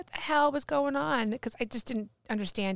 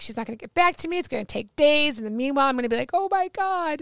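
retold fretting, pitched higher; freaked out; 4 semitones higher, 4 dB louder, faster than usual. Woman recalling doubts about the advisor, freaked out. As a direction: act out mild panic at the wait. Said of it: "'cause I was freaked out".

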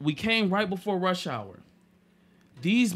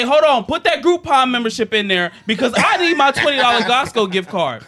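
urgent retold demand; 6 semitones higher, 9 dB louder than usual. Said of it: "I say".

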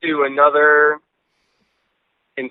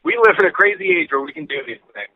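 on speakerphone; 3 semitones higher than usual. Real, not acted. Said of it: "why you sound like you're on speakerphone".

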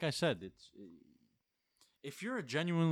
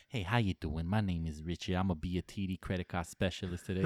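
lower, polite phone-rep greeting; customer service voice; 5 semitones lower than usual. Retold or imitated. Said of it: "the good customer service voice".

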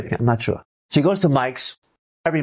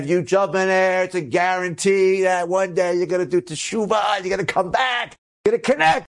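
higher, rising to a fervent pitch; excited promise; 9 semitones higher than usual. Retold or imitated. Tour guide urging the group to jump in, excited. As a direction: sell the promise with growing fervour.

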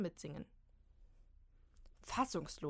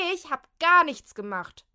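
high, very loud protest; shrieking protest; 8 semitones higher, 17 dB louder than usual. Acted. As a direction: screech your innocence. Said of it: "zetert Kim". (laut zeternd)

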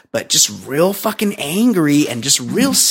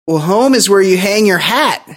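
put-on corny old-timer line; 5 semitones higher than usual. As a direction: ham it up like an old vaudevillian. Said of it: "And he goes".

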